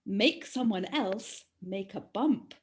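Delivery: slow, deliberate riddle reading with a lilt; measured, drawn-out clue delivery; riddle recital. Acted. Quizmaster posing a riddle to friends, riddle recital.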